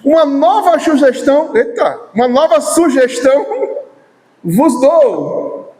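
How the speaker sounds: mock scripture, laughing; "nova sugestão" said with a scoffing rise; mocking misquote. Shown as a demonstration. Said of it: "Foi isso que ele falou?". (citação zombeteira, rindo)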